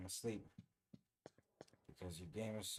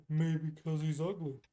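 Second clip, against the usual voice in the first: loud, higher, laughing through it; 7 semitones higher, 10 dB louder than usual. Real, not acted. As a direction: crack up at your own joke. Joke repeated laughing.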